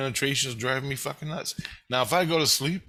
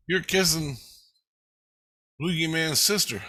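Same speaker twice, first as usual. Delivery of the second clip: voicing Tina; 6 semitones higher, 3 dB louder than usual. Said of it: "Tina goes".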